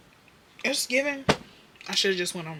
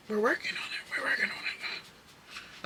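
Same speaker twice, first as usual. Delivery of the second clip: whispered reassurance; 9 dB quieter than usual. Real, not acted. Whispering to her viewers that she is working on it. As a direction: murmur it to yourself.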